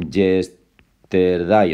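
yesterday as slow "jes-ter-DAI"; spelling pronunciation. Shown as a demonstration. Teacher reading it as written, slow Spanish-style yesterday. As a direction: break up yesterday with hard J and sounded R. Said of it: "o sea, yesterday".

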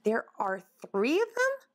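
mildly alarmed, rising disbelief; horrified question. Acted. Woodchuck learning there are three Paces, mildly horrified. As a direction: ask it in mild horror. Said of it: "Sammy recoiled in horror".

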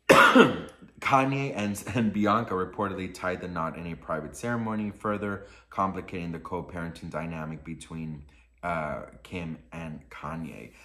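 low, even article reading; subdued report-reading voice; article read-aloud. Real, not acted.

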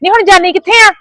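high, shrieking curses at her; mother-in-law yells at her daughter to open the gate; angry yelling. Acted. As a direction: call her back and curse her, pitch up. Mother-in-law shouting at leaving daughter.

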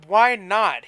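breathy plea, half whispered; pleading. A narrator's reading. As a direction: beg her gently, voice almost gone. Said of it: "he pleaded".

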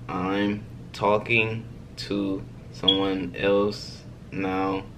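slow and deliberate; slow dramatic line. Shown as a demonstration. To chat viewers, slowly spelling out the reply. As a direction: lay it out slowly, savoring it. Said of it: "Let me show y'all what my next move is".

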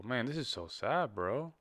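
soft, saddened aside; subdued sadness. Real, not acted. Reactor tells viewers he is saddened, subdued. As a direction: let the volume sink with real sadness. Mourning the musician, mid-video.

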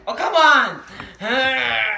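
very slow, loud, stretched-out complaint; long loud whine of protest; drawn-out frustrated groan. Real, not acted. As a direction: drag every word out in exasperation. Frustrated at the game again.

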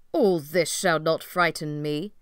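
put-on loud, defiant young prince; bold declaration. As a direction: declare it fearlessly, full voice. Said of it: "the young prince said".

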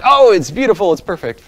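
delighted producer. Retold or imitated. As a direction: gush like an easily pleased producer. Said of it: "And they're like".

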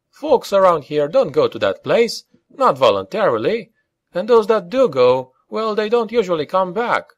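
high-pitched, warning character voice; worried objector. A narrator's reading.

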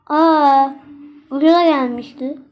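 a loud gasp of Aa, then an excited ucuza gelmişti; loud surprise. Real, not acted. Girl showing viewers a cheap toy price, loudly surprised. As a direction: react loudly to a bargain.

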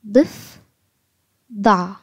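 ضف then ضع, a clear pause between the two halves; split into syllables. Shown as a demonstration. Teacher splitting a word into syllables for young learners. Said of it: "بالشكل ده".

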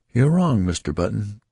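sharp, loud, high reproof; severe. Acted. Nurse correcting the new father, severely. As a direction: scold him firmly from above. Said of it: "said the nurse severely".

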